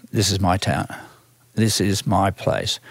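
hushed retold moment of belonging; quiet realisation. Recalling his first drive into New York, quiet realisation.

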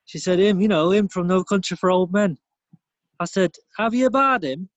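mock northern bloke. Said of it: "just bog standard northern".

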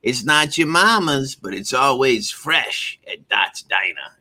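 high, slow Southern diner lady; sing-song it like a sweet old diner owner; Dot's voice. Retold or imitated. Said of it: "This is how she talks".

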